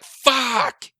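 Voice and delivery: stuck in a seat, the anger explodes; frustrated outburst. Retold or imitated. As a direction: let the fury burst out in one word. Seething in seat, nothing to punch.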